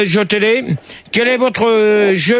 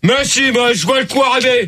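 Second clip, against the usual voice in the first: raised, insistent pitch; worked up; 4 semitones higher than usual. Real, not acted. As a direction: argue back, irritated. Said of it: "c'est toi qui es énervé ce soir".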